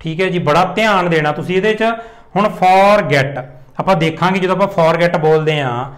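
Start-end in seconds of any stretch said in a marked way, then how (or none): 2.6-3.4 "for get" with the weight on "get"; stress on get. Shown as a demonstration. Teacher showing learners where stress falls, stress on "get". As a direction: lean on the second syllable, "get". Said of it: "get 'ਤੇ ਜ਼ਿਆਦਾ ਜ਼ੋਰ ਪਾ ਰਹੇ ਹਾਂ".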